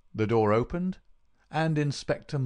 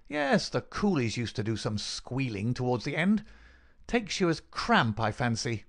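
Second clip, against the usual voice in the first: higher-pitched, gloating villain; taunting villain; 3 semitones higher than usual. Acted.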